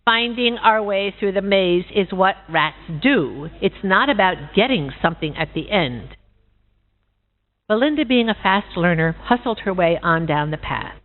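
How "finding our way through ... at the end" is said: steely and measured. Acted. Rat coldly lecturing the pig, steely and measured. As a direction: lay it out cold and deliberate. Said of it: "her voice became steely and very measured".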